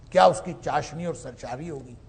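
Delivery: ordinary talk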